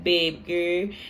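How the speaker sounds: imitated New Orleans accent, ending on a rise; put-on New Orleans speech, lightly done. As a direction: mimic a New Orleans friend. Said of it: "he used to talk like that too".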